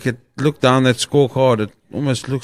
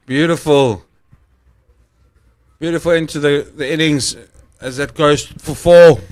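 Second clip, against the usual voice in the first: excited call; 3 semitones higher, 4 dB louder than usual. Real, not acted. Boundary hit, commentator calls it.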